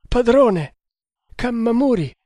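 high, loud wailing cry; desperate weeping. A narrator's reading. Traitor feigning grief to his master, weeping desperately. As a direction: wail the names out in despair. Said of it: "piangendo disperatamente".

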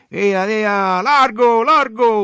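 high, forceful crowd-clearing shout; yelling guards. A narrator's reading. Guards ordering the crowd aside, loud high yelling. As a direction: yell to clear a way through. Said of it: "urlavano le guardie".

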